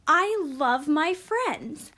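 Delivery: slow, drawn-out excited exclamation; demonstrating excitement, stretched out for emphasis. Shown as a demonstration. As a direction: read it like it ends in an exclamation point. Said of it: "we sound more excited than we would".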